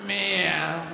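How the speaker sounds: long drawn-out falling meow; imitated cat cry. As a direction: miaow slowly like a cat. Imitates a cat meowing repeatedly.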